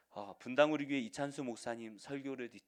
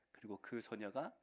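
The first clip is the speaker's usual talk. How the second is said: ordinary talk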